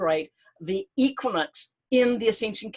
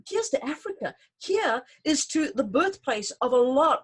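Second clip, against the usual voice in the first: raising a toast; 3 semitones higher than usual. Acted. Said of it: "I just need a toast".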